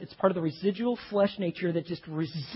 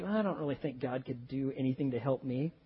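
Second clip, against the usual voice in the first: a lightly voiced doubter, quieter and deflated; doubter's voice; 3 semitones lower, 6 dB quieter than usual. Voicing a doubting man to the congregation, hopeless mutter. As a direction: sound like a man who has given up. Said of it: "the guy who's just doubting".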